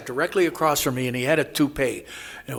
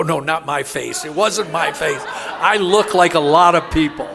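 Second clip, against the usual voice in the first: laughing denial; 3 semitones higher, 6 dB louder than usual. Real, not acted. Laughing off the dream claim.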